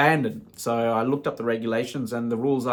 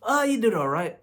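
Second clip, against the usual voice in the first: laughing brother; 9 semitones higher than usual. Retold or imitated.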